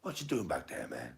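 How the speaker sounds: high-pitched film character; hammed-up high questioning voice; Ezel. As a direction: imitate him way up high. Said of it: "And he's like".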